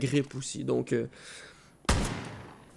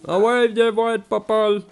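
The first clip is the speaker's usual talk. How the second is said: loud, high challenge; taunting call; 6 semitones higher, 7 dB louder, slower than usual. Acted. Player daring the bear to come, taunting call.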